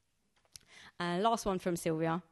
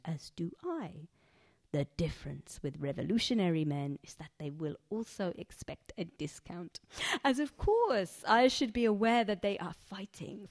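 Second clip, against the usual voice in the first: lightly voiced Egyptian accent, poem read in character; a hint of an Egyptian accent from Sharifa telling her story. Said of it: "fully allowed to do this accent".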